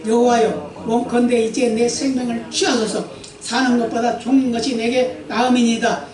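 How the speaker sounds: 또박또박 경건하게 읽는 성경 낭독; 회중 앞에서 말씀을 엄숙히 읽어 주듯. Acted. Reads scripture aloud. (설교자가 회중에게 본문을 읽어 주는 경건한 낭독)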